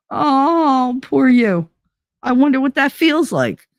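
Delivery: sarcastic. Real, not acted. Sneering at her mother's self-pity, sarcastic. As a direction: drip sarcasm over poor you. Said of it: "Yes, sarcasm is very thick with me".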